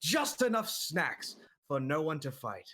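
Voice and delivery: sing-song rhyming storybook voice; Dr. Seuss rhyming voice. Acted. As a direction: recite in bouncy rhyming verse.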